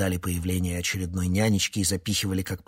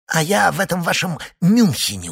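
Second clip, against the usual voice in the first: высоко и громко, резко; огрызнись свысока; огрызаясь; 11 semitones higher, 9 dB louder than usual. A narrator's reading. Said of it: "огрызнулся Синайский". (огрызнуться громче и выше)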